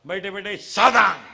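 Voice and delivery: barked parade-ground order, loud on सावधान; drill command. Acted. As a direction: call it like a drill teacher to kids. (कवायतीचा जोरदार आदेश)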